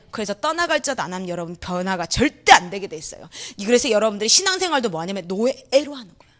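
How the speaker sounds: ordinary talk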